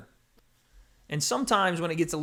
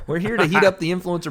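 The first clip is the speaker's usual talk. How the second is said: announcer voice; 4 semitones higher, 5 dB louder than usual. Acted. Announcer opening again.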